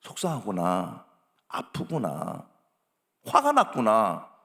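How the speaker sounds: low, slow, soothing acknowledgment; name the feeling gently, unhurried; accepting empathy. Acted. Parent accepting a child's feelings as they are, gently. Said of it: "그대로 인정만 하면 돼요".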